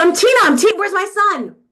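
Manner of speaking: mock very loud, frantic, panicked, high-pitched voice. Retelling asking a man at a counter for her son, retelling frantic panic. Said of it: "I'm freaking".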